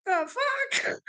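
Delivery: high, squeaked disbelief; a shocked falsetto reaction. Retold or imitated. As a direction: go way up in stunned surprise. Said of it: "and I'm just like".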